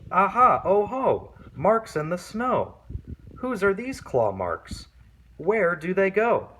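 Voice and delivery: put-on a child crowing over a new clue; Gruffalo's child. Child spotting claw marks in the snow, high and thrilled.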